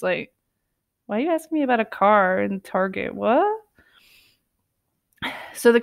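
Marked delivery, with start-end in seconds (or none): 1.1-3.4 confused disbelief. Retold or imitated. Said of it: "Mark is just confused, staring confused".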